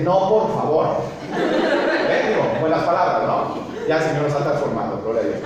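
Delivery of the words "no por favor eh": laughing mock dismay. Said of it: "Así como que".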